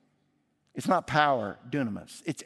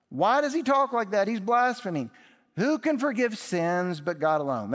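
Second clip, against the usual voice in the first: high, loud scandalised outcry; religious critics outraged at what Jesus said; indignant protest; 5 semitones higher, 3 dB louder than usual. Acted. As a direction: sound shocked and offended at blasphemy.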